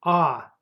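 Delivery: а sounded out alone, clear and stressed; the vowel а held on its own as the stressed sound; stressed final vowel. Shown as a demonstration. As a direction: isolate the stressed а at the end. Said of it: "Stress goes to last vowel".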